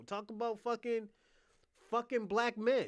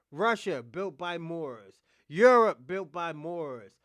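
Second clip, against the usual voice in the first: shouted ranting list; 4 semitones lower, 6 dB louder, slower than usual. Real, not acted.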